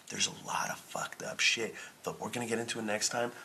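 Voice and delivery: secretive whisper. Acted. Whispering a teaser to listeners about next episode.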